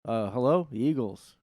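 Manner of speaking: high, small, timid voice for a huge man; high little voice impression. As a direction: squeak it out like a tiny guy. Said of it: "It's more like this".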